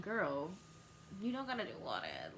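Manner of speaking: fast whispered aside; mock whisper. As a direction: whisper it under your breath. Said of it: "and I was like".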